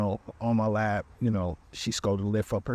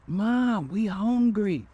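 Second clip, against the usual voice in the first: put-on much higher, louder child calling out; kid calling; 11 semitones higher, 4 dB louder, much slower than usual. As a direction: shout up the stairs like a hungry kid. Kids call up from basement.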